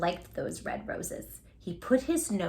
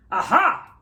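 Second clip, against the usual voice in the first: loud, slightly high aha of discovery; knowing aha; 4 semitones higher, 8 dB louder than usual. A narrator's reading. Doctor figuring out the sneeze, a loud knowing aha. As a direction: pounce on it like a clue. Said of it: "said the doctor".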